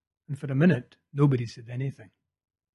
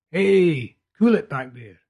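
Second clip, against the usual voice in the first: calling out; 3 semitones higher, 9 dB louder, slower than usual. A narrator's reading. Driver calls back from front.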